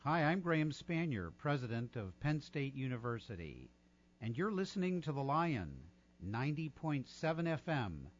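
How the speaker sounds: smooth station ID read; old radio voice. Shown as a demonstration. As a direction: announce it like a veteran DJ. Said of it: "In my old radio voice".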